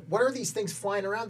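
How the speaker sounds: high, puzzled rising question; half-acted alarm at strange lights; baffled recruits. Recruits asking each other about the lights, mildly alarmed. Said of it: "And we're like".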